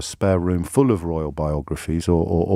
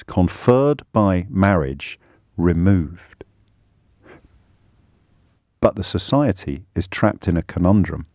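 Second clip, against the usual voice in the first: reading aloud; slower than usual. Acted. Host reads article aloud.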